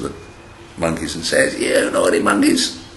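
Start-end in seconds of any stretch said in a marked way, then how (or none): 1.6-2.8 mildly cross storybook scolding; mock angry scolding. Angry cap seller shakes his fist at monkeys, mock scolding. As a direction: scold lightly, pretending to be cross. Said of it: "he's very angry".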